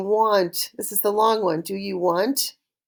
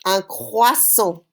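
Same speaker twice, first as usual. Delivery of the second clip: Un croissant drawn out slowly, kwasɔ; slow model word; slower than usual. Shown as a demonstration. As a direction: say Un croissant slowly for the class to repeat. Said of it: "how to say it in French".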